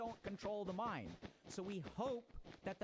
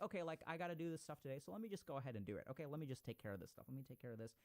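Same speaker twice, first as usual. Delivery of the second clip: fast, offhand, softer and lower to the end; just breezing through the to-do list; casual; 4 semitones lower, 3 dB quieter, faster than usual. Retold or imitated. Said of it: "There's a certain casualness to it".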